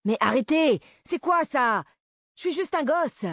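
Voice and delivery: put-on high, loud cries of a terrified boy; acted frantic protest; panicked pleading. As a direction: beg for your life, voice shooting up. Boy begs at gunpoint.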